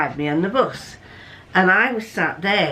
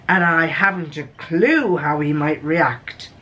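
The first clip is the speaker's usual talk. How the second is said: lightly acted detective story narration; story reading. Reading a Sherlock Holmes tale to listeners, lightly acted. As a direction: read out Holmes and Watson's exchange with theatrical lilt.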